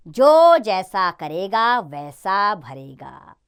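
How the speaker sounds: clear, slow sentence reading for pupils; slow reading aloud. Shown as a demonstration. Teacher reading example sentences slowly to children. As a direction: read each example sentence deliberately.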